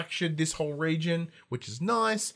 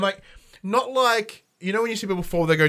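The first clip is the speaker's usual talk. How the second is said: normal talking voice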